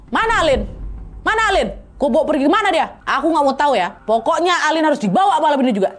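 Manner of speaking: half-acted shouting, pushing hard; mild mock yelling. Neighbour snapping at Mama about Alin, mild mock yell. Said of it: "Teriak dia, Wak, ngegas".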